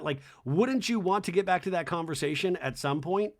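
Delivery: ordinary talk, nothing marked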